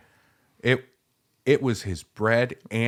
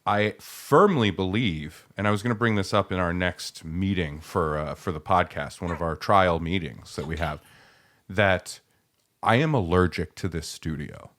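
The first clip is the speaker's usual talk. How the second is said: blocked nose from a cold; stuffed up; 3 semitones lower than usual. Real, not acted. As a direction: talk through a stuffy nose. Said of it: "I sound stuffed up".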